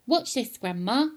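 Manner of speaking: mild shout as George; shouting boy. Acted. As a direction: call up to Grandma. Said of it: "he shouted".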